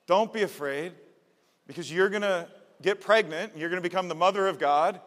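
angel's announcement. Acted. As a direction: announce it like a heavenly messenger.

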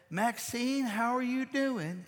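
friend on phone. Retold or imitated. Grandmother's friend voiced on phone.

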